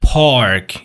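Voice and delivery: American "پارک" with the r sounded; American accent, pronounce the r before k in "پارک"; American pronunciation. Shown as a demonstration. English teacher contrasting it with British, American accent.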